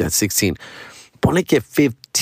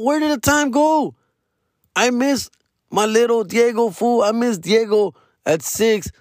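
raised, slowed nostalgic plea; wistful lament; 10 semitones higher than usual. Real, not acted. Father missing his little son, raised wistful lament. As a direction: ache over the lost years.

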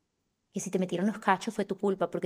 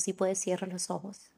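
soft, calm guiding voice; guided meditation; 4 dB quieter than usual. Acted. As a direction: lead the affirmation gently. Guided affirmation with eyes closed.

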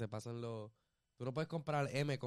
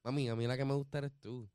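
seductive pickup line. Shown as a demonstration. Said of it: "Así".

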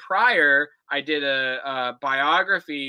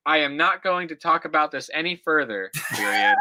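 put-on reading an old essay aloud, punctuation and all; dictating. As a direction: read it out like dictation, calling each comma. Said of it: "I'm telling you the punctuation".

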